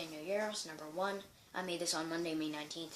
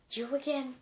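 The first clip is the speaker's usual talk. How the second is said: exasperated teacher; 8 semitones higher, 3 dB louder than usual. Acted.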